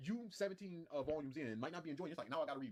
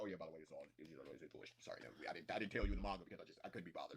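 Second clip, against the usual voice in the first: mock lazy author voice; 12 semitones lower, 4 dB quieter than usual.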